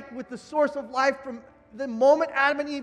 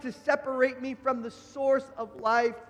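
raised, forceful pulpit delivery; impassioned preaching; 3 semitones higher, 4 dB louder than usual. Real, not acted. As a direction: preach it with rising conviction.

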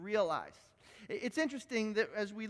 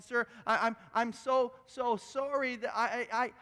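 stammering apology; 3 semitones higher than usual. Retold or imitated. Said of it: "as she's stammering out her sentence".

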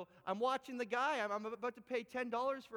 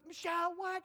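calling out; 7 semitones higher, 4 dB louder than usual. Retold or imitated. Mom calling to daughter.

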